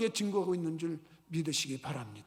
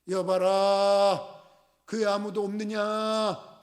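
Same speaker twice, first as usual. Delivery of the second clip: drawn-out, louder commanding hail; lordly call-out; 5 dB louder, much slower than usual. Acted. General calling at Elisha's gate, drawn-out commanding hail. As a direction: call for the servants like a proud general.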